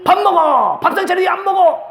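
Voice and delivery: high, shouted orders at the table; bossy shouting. Shown as a demonstration. Pastor acting a bossy spouse ordering meals, shouting. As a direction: bark mealtime commands. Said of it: "이러는 게 좋아요".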